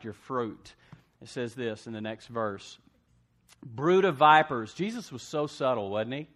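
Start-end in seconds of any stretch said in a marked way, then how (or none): 3.6-4.7 loud, slow, weighty "Brood of vipers"; thundering rebuke. Shown as a demonstration. Jesus rebuking the Pharisees, loud and slow. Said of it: "we read it like it's no big deal".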